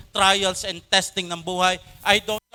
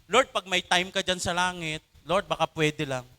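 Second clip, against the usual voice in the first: lazy casual prayer. Retold or imitated. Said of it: "hindi ho yung".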